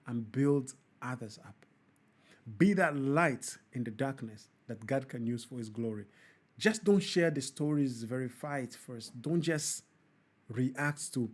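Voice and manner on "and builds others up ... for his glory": preachy sign-off. Acted. Host preaching to viewers in a solemn sermon tone. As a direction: deliver it like a closing sermon. Closing food-for-thought message.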